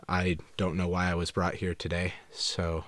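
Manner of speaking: talking while chewing gum; words round a wad of gum. Real, not acted. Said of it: "I have gum in my mouth".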